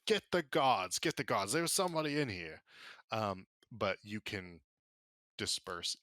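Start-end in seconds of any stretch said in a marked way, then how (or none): 0.1-1.0 alarmed call. Acted. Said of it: "somebody's like". 1.0-2.6 alarmed shout. Acted. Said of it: "somebody's like".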